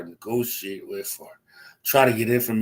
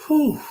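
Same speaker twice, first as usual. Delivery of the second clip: loud whew; 5 dB louder than usual. Real, not acted. Exhales before venting frustrations.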